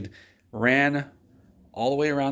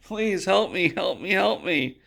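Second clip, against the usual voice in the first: pleading; 7 semitones higher, slower than usual. Retold or imitated. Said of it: "And I said".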